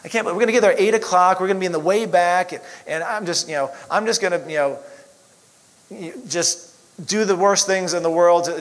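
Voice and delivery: retold fed-up rant to himself; frustrated rant. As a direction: rattle off the complaint like you're fed up. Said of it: "So I'm really upset and very frustrated. I'm like".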